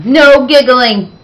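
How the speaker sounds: stern command. Acted. Teacher scolds giggling class.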